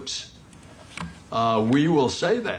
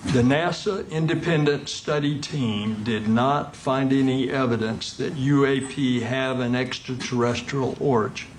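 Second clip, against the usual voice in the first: deliberate, measured restatement; word-for-word emphasis. Real, not acted. Official repeating a finding to the questioner, word-for-word emphasis. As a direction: spell it out so every word lands. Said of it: "you hear this word for word".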